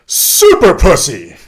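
put-on high, loud, drawn-out old lady shriek; mock scream. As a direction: belt it out like a crazy old lady flashing the room. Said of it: "And she screams out".

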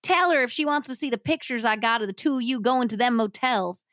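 hillbilly rant, only half-screamed; mild mock scream. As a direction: rattle out an acted angry threat. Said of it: "as Kenneth screamed".

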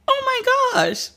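slow, high, tearful gasp of words; overcome, voice caught in tears; real weepy oh my gosh; crying. Real, not acted. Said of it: "I'm really sitting here crying".

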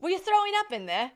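put-on high British-sounding accent through laughter; attempted Australian, sounds British. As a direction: botch an Aussie accent into British. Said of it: "That's British".

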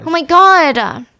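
high, loud, drawn-out mock wail; acted-out frantic exclamation; freaking out. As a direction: cry out in exasperated panic. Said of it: "Halam is freaking out".

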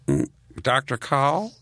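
slow, sly guessing shark voice; land shark voice. Retold or imitated. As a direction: stall like a dim shark at the door. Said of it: "did the shark voice".

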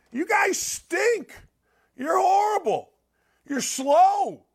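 high, slow, drawn-out yell at the team; mock yelling. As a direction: bellow it like a fed-up fan. Yelling at the Patriots.

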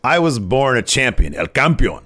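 mock-haughty wrestler voice; Santos. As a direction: boast like a wrestling champion. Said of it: "he says".

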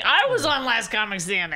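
mock boast, lightly exaggerated; mocking Rich. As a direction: parody a comic bragging about a credit. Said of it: "shitty impression of you".

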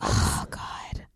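hushed whisper; quiet at night. Real, not acted. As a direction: whisper so nobody wakes up. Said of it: "so that's why I'm very quiet".

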